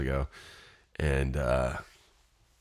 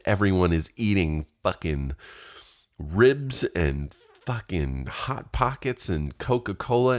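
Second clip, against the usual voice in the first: mock furious rant; 4 semitones higher than usual. Starving dieter ranting to his nutritionist on the phone, furious. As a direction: vent like a starving man ready to punch someone.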